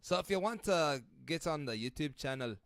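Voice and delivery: put-on harsh Scottish accent with rolled R. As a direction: plug it in a rough Scottish accent. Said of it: "I'm gonna go Scottish on this one".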